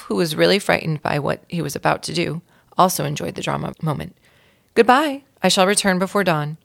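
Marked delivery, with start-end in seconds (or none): 4.7-6.6 dramatic farewell. Acted.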